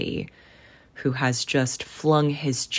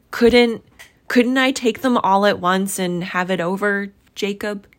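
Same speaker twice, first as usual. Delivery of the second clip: anxious hinting; 7 semitones higher, 6 dB louder than usual. A narrator's reading. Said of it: "hinted Scrooge".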